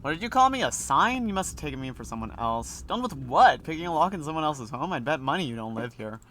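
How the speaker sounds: put-on cocky teenager snapping back; voice for the boy. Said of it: "I need a voice for him".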